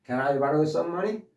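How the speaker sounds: Can I borrow some money? said slowly and clearly; slow it down for learners; careful English demo; slow model sentence. Shown as a demonstration. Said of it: "다시 한번".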